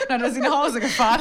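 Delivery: fast, high, laughing. Real, not acted. Host giggling the punchline about the fake faint, fast and high. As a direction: rush it out giggling.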